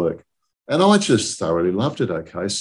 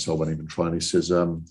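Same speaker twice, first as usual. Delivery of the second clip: ordinary talk, nothing marked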